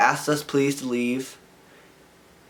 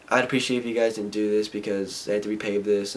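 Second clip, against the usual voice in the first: lower, mild courteous voice; imagined polite request; 4 semitones lower, 4 dB quieter than usual. Retold or imitated. Skater voices how man should have asked, politely, lower. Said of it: "asked us politely".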